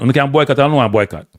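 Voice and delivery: lightly voiced official, barely shifted from his own; a hint of a smug federation boss; voicing the JFF. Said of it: "The J F F say".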